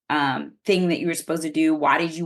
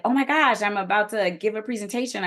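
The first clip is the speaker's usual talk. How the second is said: mildly excited, quick and higher; 4 semitones higher, faster than usual. Acted. Speaker imagining being invited to give a presentation, mildly excited. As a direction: lightly act out eager anticipation, pitch raised. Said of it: "You could be excited".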